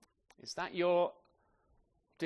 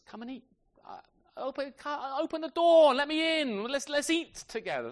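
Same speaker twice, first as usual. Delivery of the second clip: lightly voiced Jesus; 11 semitones higher, 6 dB louder than usual. Voicing Jesus at the door.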